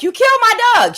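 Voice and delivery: high, loud accusing yell; shouted accusation. Retold or imitated. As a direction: re-enact yelling at dad, pitch way up.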